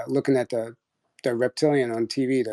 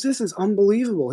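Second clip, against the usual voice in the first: higher-pitched imitation of exasperated disbelief; incredulous dad; 7 semitones higher than usual. Dad to me after the doors slammed, incredulous. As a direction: retell dad's disbelief in a raised pitch. Dad's outraged reaction, retold.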